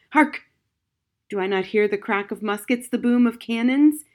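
put-on loud startled cry of an old soldier; alarmed. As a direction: snap upright and call out in alarm. Feverish soldier hears battle.

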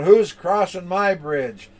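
high, loud, slow troll challenge; a drawn-out storybook demand; challenging troll. Acted. Troll challenges big goat.

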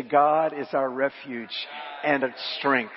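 slow, phrase-by-phrase lead; leading group repetition. Shown as a demonstration. Preacher asks congregation to say the verse, slow and deliberate. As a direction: give it out deliberately for others to echo. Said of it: "I want you to say".

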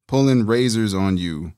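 spelling out the rhyme slowly; slow it down to show the syllables; slow rap demo; slowed-down lyric. Shown as a demonstration. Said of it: "That's a four-syllable swing".

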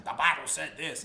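a touch of preacher insistence; imitating preachers. Quoting preachers at their pulpits, mock preaching. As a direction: lightly mimic a preacher making a point. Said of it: "when these preachers are preaching".

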